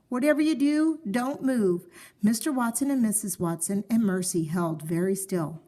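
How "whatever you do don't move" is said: raised, firm insistence; father warning family; urgent warning. Acted. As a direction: stress don't move.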